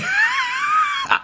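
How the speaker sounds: high pained laughing cry; pained laugh-shout. Real, not acted. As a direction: yelp and laugh at the heat. Sweating from spicy noodles.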